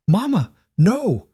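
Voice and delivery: high, slow imitation of a crying child; mocking child voice. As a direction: mimic the scared little girl. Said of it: "parading her around like".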